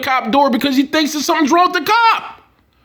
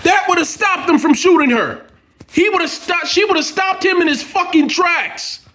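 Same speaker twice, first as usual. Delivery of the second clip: raised angry shout; 6 semitones higher than usual. Real, not acted. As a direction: yell it out in frustration. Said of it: "I'm sorry for being so loud".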